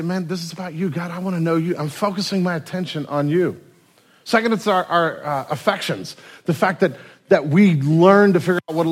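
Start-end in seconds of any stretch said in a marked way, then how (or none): 0.0-3.6 sincere prayer. Retold or imitated. Sample prayer to God.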